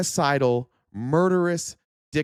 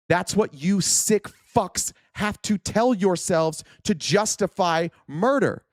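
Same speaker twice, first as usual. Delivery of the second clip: seething; 4 semitones higher, slower than usual. Real, not acted. Angry rant at chat.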